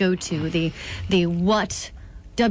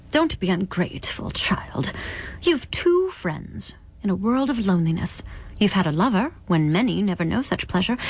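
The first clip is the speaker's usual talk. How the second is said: lightly voiced stern visitor, measured phrases; admonish, weighing each blessing; a hint of a scolding spirit; reproving otherworldly visitor.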